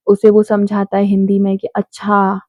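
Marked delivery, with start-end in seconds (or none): 1.7-2.4 अच्छा as a matter-of-fact "I see"; plain acknowledging अच्छा. Shown as a demonstration. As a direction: say अच्छा as a simple, unquestioning acknowledgement. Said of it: "अच्छा word के उसने बहुत सारे वेज".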